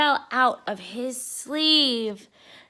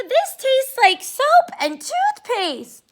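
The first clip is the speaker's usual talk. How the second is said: disgusted whine; 12 semitones higher, 7 dB louder, slower than usual. Acted. Arthur disgusted by prank cookie.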